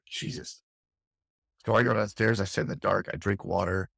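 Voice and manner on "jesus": whispered exasperation. Retold or imitated. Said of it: "she's like".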